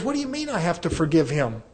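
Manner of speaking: mildly acted disbelief, pitch swooping up; incredulous retort. Man balking at counselor's advice to forgive, incredulous.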